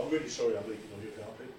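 low, soft, hurried imitated apology; mild mock apology. Preacher voices the instinct to apologise for leaking, meek mock apology. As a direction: apologise quickly and quietly. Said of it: "My instinct is to go".

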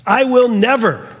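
firm retold "never"; emphatic refusal. Preacher showing how emphatic Thomas is, emphatic. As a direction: press each word as an absolute refusal. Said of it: "do you notice how emphatic he is".

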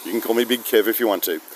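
a light touch of broad Aussie; easygoing pub Aussie, lightly done; Aussie bloke voice. Shown as a demonstration. At the pub watching footy, light Aussie bloke voice. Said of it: "then I'll slip into that".

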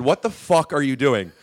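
slow, loud mock outrage; loud, drawn-out imitated anger; retold angry outburst. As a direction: imitate a furious interruption, punching the curse. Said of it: "Mad, not comedy".

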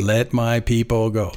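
slow, weighty "Let my people go"; solemn Exodus command. Retold or imitated. Echoing Moses's demand to Pharaoh, slow solemn command. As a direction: give it like Moses before Pharaoh. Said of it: "that sounds like Exodus".

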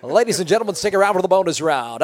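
lightly done game show host. Shown as a demonstration. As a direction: emcee the bonus round teaser. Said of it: "that's my game show voice".

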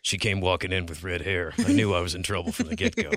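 lightly voiced noir narrator; a hint of a hard-boiled detective. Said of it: "There's a little noir".

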